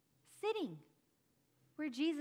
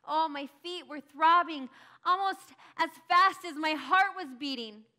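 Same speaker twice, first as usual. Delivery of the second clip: breathless; 6 semitones higher, 9 dB louder than usual. Acted. Breathless rush back.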